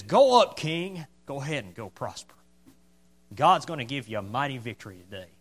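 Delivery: lightly mocking false encouragement. Micaiah sending the king off to battle, mildly mocking. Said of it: "he's probably mocking the other prophets".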